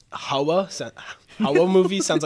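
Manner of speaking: S=Horror movie sounds. Shown as a demonstration. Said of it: "lisp with the R or the speech impediment".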